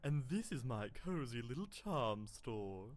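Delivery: put-on sweet old shopkeeper. Voicing Salubra, charm seller.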